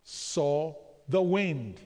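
very slow, every word leaned on. Shown as a demonstration. Preacher drilling the congregation, very slow and deliberate. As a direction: drag it out so the room repeats it. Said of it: "When he what?".

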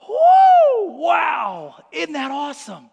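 high delighted whoop then trailing off; excited squeal. Retold or imitated. Preacher voicing kids squealing with delight at cookies. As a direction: kids thrilled by the smell.

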